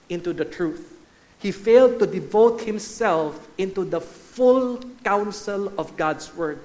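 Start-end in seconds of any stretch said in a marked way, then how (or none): 1.4-6.6 "full" stretched and weighted before "counsel"; stress on "full". Shown as a demonstration. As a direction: hit the word "full", drawing it out. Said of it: "put emphasis on full".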